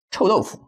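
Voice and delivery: 臭豆腐 starting high and falling, 腐 unstressed; 臭豆腐 as a Mandarin tone demonstration; neutral last syllable. Shown as a demonstration. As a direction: let 腐 in 臭豆腐 stay light and toneless. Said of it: "Fu is neutral".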